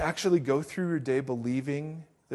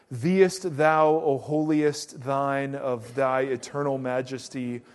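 grandly intoned fake-holy prayer, slow; mock pompous prayer; 5 dB louder, slower than usual. Mocking his old showy praying to God. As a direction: ham up an old-fashioned churchy prayer. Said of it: "I always had to put on a show".

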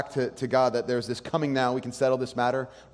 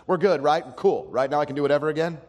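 mock shout to God; 4 semitones higher, 5 dB louder than usual. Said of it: "shout out with your heart".

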